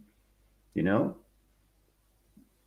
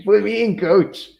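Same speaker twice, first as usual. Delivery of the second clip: eager plea; 9 semitones higher, 7 dB louder than usual. Pretend. Begging to be cast.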